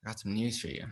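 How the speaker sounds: imitating a manager's casual, offhand delivery; nonchalant. Manager calls an actor with casting news, nonchalant. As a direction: toss the news out casually, no big deal. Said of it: "she just made it sound so nonchalant".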